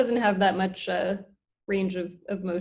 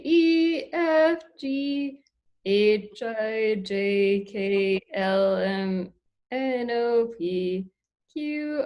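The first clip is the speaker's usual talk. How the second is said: alligator voice; much slower than usual. Shown as a demonstration. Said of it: "saying the alphabet in his voice".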